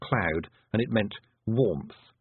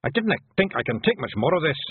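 higher pixie voice, a touch fed up; weary Hamish; 7 semitones higher, 3 dB louder than usual. A narrator's reading. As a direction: grumble after a bad landing.

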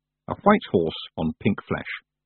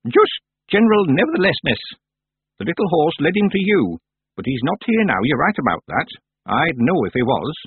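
put-on wry old witch; 7 semitones higher, 3 dB louder than usual. Miss Treason.

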